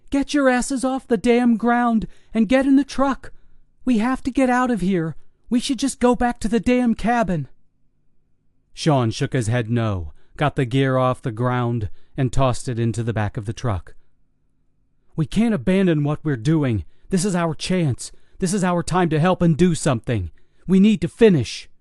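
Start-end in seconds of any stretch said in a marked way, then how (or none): 0.1-7.5 yelling. Acted. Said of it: "Tina yelled across to him". 15.1-21.7 insistent. Acted. Sean argues to stay.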